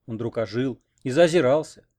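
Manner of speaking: ordinary delivery, nothing marked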